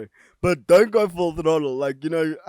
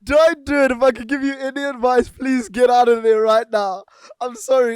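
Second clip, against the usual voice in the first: high urgent pleading; 8 semitones higher, 4 dB louder than usual. Real, not acted. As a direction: beg them earnestly. Mock pleading advice.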